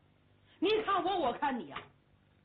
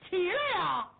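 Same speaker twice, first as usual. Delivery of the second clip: shouted order; 6 semitones higher, 5 dB louder, slower than usual. Acted. Hu shouts at fallen soldier.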